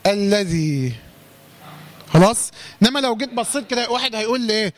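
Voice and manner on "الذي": "الذي" slow and lower, one doubled lam, long final ee; drawn-out "الذي" falling in pitch; merged lam. Shown as a demonstration. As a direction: recite "الذي" deliberately as alladhee. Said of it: "فصارت هكذا".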